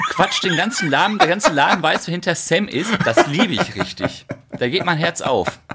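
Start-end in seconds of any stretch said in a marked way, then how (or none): 0.0-4.2 laughing through the words; chuckling while telling it. Real, not acted. Fond story told while laughing.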